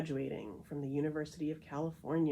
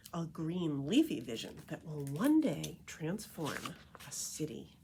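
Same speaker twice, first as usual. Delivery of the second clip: expressive read-aloud of the back cover; blurb read aloud. Acted. Introducing the book to listeners, read-aloud voice. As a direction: present the book to listeners with lively emphasis.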